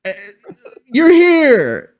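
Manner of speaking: put-on high, halting, goofy old-man line delivery; Willem Dafoe impression. Mocking the actor's stumbling delivery in the movie, high and goofy. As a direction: stumble through the lines like an actor who never read them. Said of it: "that's how Willem Dafoe's line delivery was".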